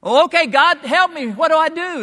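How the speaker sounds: high, loud frantic relief; desperate man calling up the cliff. Acted. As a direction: gasp it out, relieved and panicked.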